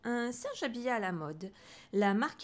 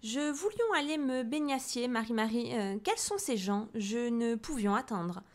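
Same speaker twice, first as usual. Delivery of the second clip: haughty queen lioness; 3 semitones higher than usual. Acted. Bad-tempered queen lioness speaks.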